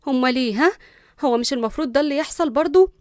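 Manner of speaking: nervous. Acted. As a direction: sound thrown and uneasy, voice lifting. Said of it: "بلعت ريقها بتوتر".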